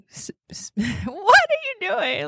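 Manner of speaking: breathless whisper through giggles; whispered laugh. Real, not acted. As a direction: whisper it while cracking up.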